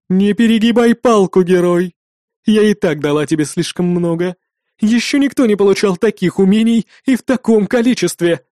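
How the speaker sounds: loud, angry rebuke; angry demoness. A narrator's reading. Demoness rebuking the defiant hero, loud and angry. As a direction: scold him hard for pushing too far. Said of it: "послышался сердитый голос демонессы".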